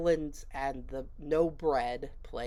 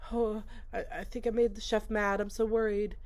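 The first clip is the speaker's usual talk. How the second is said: mock worried Tyler; 6 semitones higher, faster than usual. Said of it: "He's like".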